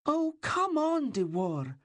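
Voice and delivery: put-on high, slow, pleading boyish whine; a wound-up child begging him to hurry; impatient squeal of a boy at play; excited boy. A narrator's reading. Excited boy jumping, shaking telescope.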